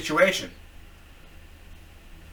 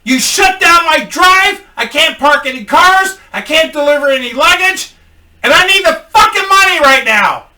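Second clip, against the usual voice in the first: angry yelling; 12 semitones higher, 13 dB louder than usual. Retold or imitated. Raging at the man who shut down his drive, loud yell. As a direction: bellow it at him word by word. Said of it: "I fucking yelled out".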